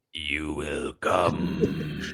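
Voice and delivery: put-on film vampire voice, played up. Talking about practicing a vampire voice that strained their voice, Nosferatu vampire voice. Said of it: "It's pretty good".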